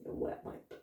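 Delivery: whispered, breathy Scottish insult. Shown as a demonstration. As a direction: hiss it at them in a Scottish voice. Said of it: "Scottish people say a lot".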